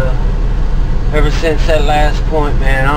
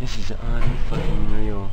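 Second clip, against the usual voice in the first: slow, hushed disbelief; low stunned murmur; 3 semitones lower, 6 dB quieter than usual. Real, not acted. Hushed disbelief while trainer near.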